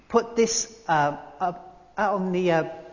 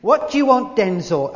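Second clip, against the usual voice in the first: a hint of a big Hollywood star, louder, talking to himself; 4 semitones higher, 9 dB louder than usual. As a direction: ask yourself like a star in his big house. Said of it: "speak to yourself when you're a Hollywood star".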